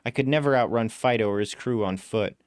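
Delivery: usual speaking voice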